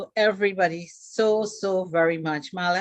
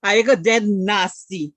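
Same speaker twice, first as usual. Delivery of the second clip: a loud-ish teasing Guyanese Creolese line; 6 dB louder than usual. Shown as a demonstration. Joking curse for the audience, Guyanese accent. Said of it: "if I say".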